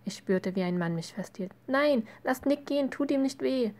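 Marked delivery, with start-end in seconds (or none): 1.7-3.7 high-pitched, desperate plea; distressed cry, pitched well up; tearful yell. A narrator's reading. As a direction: beg them to spare your brother. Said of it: "brüllte ich und begann zu weinen".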